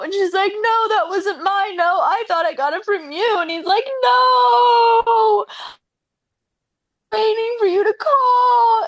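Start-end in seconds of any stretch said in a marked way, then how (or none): 0.5-3.4 hammed-up emotional pleading; mock tearful. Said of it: "they start crying". 4.0-8.8 high, drawn-out sobbing cry; hammed-up tearful howl; mock crying wail. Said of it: "everybody's crying now".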